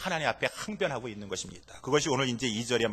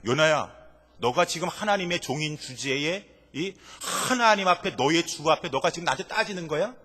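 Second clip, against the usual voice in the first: stern rebuke; 3 semitones higher, 5 dB louder than usual. Pretend. God scolding Jonah for arguing back, stern. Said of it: "라고 하는 그런 말이 아닌 것입니다".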